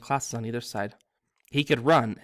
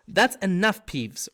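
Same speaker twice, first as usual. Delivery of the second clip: high, loud stern bark; teacher shutting down the poltergeist; barked order; 7 semitones higher, 4 dB louder, slower than usual. A narrator's reading. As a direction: snap it to stop him. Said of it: "barked Professor McGonagall".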